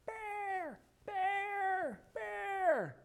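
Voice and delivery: put-on high-pitched call of a young girl; imitating the girls calling Bear from far off; girl calling dog. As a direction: call the dog like his little daughter. Daughter calling the runaway dog.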